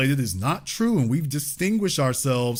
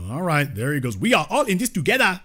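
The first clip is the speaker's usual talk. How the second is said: ordinary talk, nothing marked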